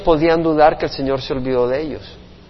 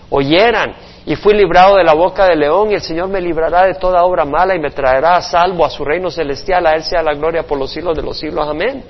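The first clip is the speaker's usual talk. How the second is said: scripture reading. Acted. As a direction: read Paul's words out to the congregation with fervour. Pastor reads Timothy scripture aloud. (lectura bíblica elevada y solemne)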